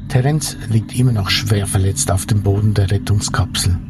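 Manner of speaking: dramatic narration over music; story narration. A narrator's reading. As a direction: tell it like an audio drama narrator. Reads the radio drama narration.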